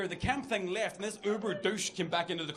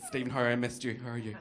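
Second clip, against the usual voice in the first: camp gushing; 6 semitones lower than usual. Retold or imitated. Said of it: "couldn't stop being camp".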